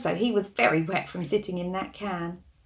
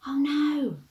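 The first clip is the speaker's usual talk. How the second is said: mock alarm; 6 semitones higher than usual. A narrator's reading. Reader reacts to danger.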